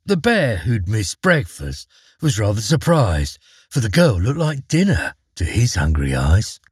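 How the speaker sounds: lively rhyming poem narration; poem reading. A narrator's reading. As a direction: read it like a fun ditty. Reads a rhyming poem aloud.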